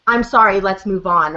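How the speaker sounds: throwaway sorry, then moving on; perfunctory mock apology; dismissive apology. Shown as a demonstration. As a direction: say sorry just to close the matter. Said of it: "a moment to connect versus".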